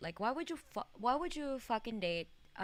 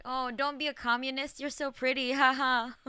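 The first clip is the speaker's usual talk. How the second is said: higher, louder mock-gushing voice; mock dialogue voice; 5 semitones higher, 6 dB louder than usual. Streamer mocking dialogue option three, higher gushing voice. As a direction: gush like a desperate suitor. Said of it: "what was that?".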